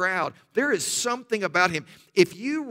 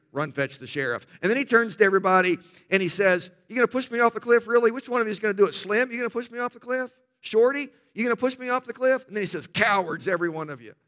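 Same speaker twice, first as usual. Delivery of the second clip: John Wayne; 3 semitones higher, faster than usual. Retold or imitated. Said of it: "I can't do a John Wayne imitation".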